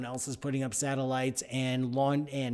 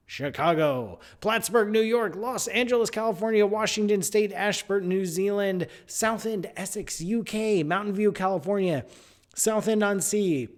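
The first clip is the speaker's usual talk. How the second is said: roll call shout-out; 5 semitones higher, 4 dB louder than usual. Acted. Reading listener locations loudly.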